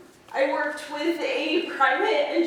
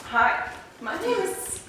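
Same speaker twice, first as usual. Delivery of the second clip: nervous start, breaking off; tight, jittery opening words; stage fright; 5 semitones higher than usual. Real, not acted. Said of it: "sorry, I'm a little nervous".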